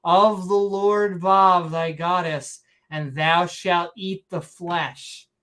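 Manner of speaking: slow, grand fake-Shakespearean scripture; mock Shakespearean accent. Proclaiming the Lord Bob's law, slow mock Shakespearean accent. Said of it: "saying it in a Shakespearean accent".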